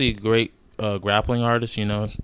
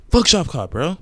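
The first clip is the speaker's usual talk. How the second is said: loud, higher angry snap; angry outburst; 6 semitones higher, 4 dB louder than usual. Real, not acted. Vlogger venting at Shavkat fans, loud angry outburst. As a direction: vent at the fans.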